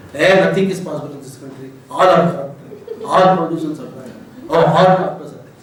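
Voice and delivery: a hint of a grumbling cynic; lightly mock the complaining pessimist. Lecturer voicing a typical cynic, lightly mocking. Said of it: "cynical is another type of".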